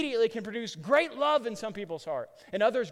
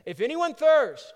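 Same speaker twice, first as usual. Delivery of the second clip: raised, slow proclamation; louder, drawn-out call to all who hear; crying out to a crowd; 7 semitones higher, 10 dB louder, slower than usual. Retold or imitated. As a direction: call it out slowly and loudly. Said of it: "cried out".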